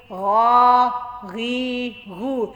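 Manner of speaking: heavy "गा", each vowel held; throaty "gha". Shown as a demonstration. Teacher drills the letter ghain, throaty "गा, गी, गू". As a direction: say "गा", "गी", "गू" as a gargled gh from the throat. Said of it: "गले से निकलना चाहिए".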